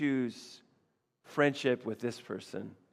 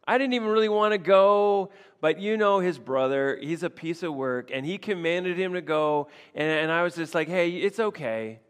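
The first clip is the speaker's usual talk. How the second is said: higher, louder casual explaining; imitating David; 3 semitones higher, 4 dB louder than usual. David explaining why he left, a higher imitating voice. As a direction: talk it through like David. Voicing David's inner reasoning.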